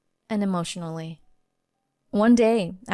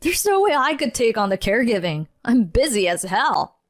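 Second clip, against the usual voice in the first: retorting; 3 semitones higher than usual. Acted. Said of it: "he retorted".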